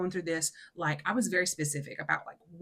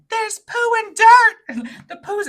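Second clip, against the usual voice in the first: put-on little girl; 16 dB louder, slower than usual. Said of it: "Madeline was like".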